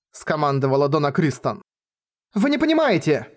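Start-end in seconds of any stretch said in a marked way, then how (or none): 2.3-3.3 high, desperate cut-in; urgent interruption. Acted. Girl interrupting the elders, high desperate cut-in. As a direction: cut them off, pitched up in desperation. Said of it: "прервала Кванда".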